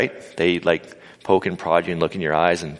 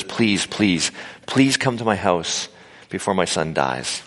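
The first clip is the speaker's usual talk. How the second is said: slow, mildly pained father's plea; pleading; 2 semitones lower, slower than usual. Acted. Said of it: "So the father pleads with Jesus".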